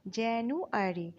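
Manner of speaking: slow, divided জানুয়ারি; syllable by syllable. Shown as a demonstration. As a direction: break জানুয়ারি into careful separate syllables. Teacher sounds out the month.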